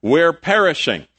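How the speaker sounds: urgent mock plea from a sinking boat; crying out. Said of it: "they cried out to him".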